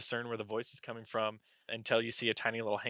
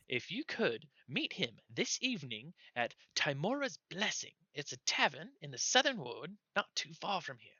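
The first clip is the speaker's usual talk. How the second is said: high, fast gnome stammering; flustered gnome; 7 semitones higher than usual. Acted. Gnome messenger stammering a message, high and squeaky. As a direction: squeak and stumble like a nervous gnome. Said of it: "a high squeaky voice".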